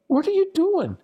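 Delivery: very high mock scream; imitated screaming. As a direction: screech it like an alarmed instructor, without volume. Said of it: "starts screaming at me".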